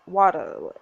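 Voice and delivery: "water" with a hard T and no final R; slow, low "water", ending in "uh"; British "water". Shown as a demonstration. Player answering the coach's quiz, British "water". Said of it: "Hard T, drop R".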